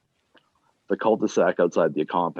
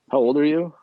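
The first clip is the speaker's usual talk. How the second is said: higher and louder cop question; sharp question; 9 semitones higher, 5 dB louder than usual. Acted. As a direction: demand it of him.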